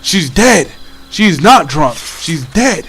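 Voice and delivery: emphatic insistence, each statement punched; adamant. Retold or imitated. Arguing with classmate that she is dead, adamant. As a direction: imitate a kid stubbornly denying it. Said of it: "Like, I was adamant".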